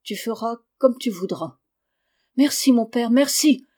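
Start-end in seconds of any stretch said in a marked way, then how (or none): 2.4-3.6 rising, louder happy thanks; a boy's glad, grateful outcry; joyful cry. Acted. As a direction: burst out with joy. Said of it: "s'écria Lucas tout joyeux".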